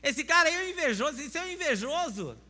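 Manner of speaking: loud, high indignant outburst; mock angry retort. Proud man loudly rejecting advice, mock indignant. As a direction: snap back as if offended. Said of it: "aí você chega e fala assim".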